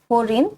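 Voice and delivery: "হরিণ" said slowly and carefully; correct pronunciation. Shown as a demonstration. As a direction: model "হরিণ" slowly for learners. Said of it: "হরিণ শব্দের সঠিক উচ্চারণ কোনটি".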